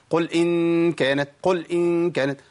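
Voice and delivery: "قل إن كانت" with the l of "قل" pressed hard and cut off; chanted "قل", l stopped too firmly; lam with shadda. Shown as a demonstration. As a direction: press the lam of "قل" tight before "إن". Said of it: "ده اسمه شدة".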